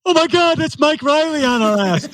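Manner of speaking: high, startled cry of recognition; shocked triathlete. Retold or imitated. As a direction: gasp it out in high alarm. Triathlete shocked looking back.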